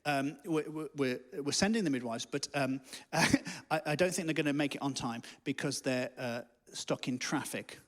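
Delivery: low, soft, hesitant reassurance; very calm. Acted. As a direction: play the calm midwife breaking bad news gently. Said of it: "stays very calm and says".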